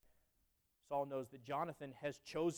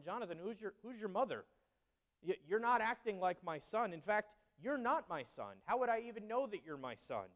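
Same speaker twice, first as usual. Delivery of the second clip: higher, rising indignant accusation; accusing Saul; 5 semitones higher than usual. Retold or imitated. Saul accusing his son Jonathan, higher indignant rebuke. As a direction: rebuke your son, voice climbing.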